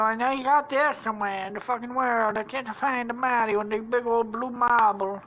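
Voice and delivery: high put-on cartoon voice; character's lament. Voicing Luigi searching for Mario.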